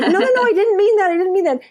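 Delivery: half-laughing, half-crying denial; laughing panic. Retold or imitated. Speaker to her audience after the mix-up, laughing in panic.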